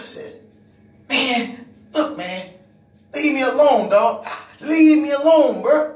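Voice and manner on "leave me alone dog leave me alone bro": louder, firmer back-off; retold warning. Preacher retelling how he told the coworker to back off, loud. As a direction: push him away with your voice.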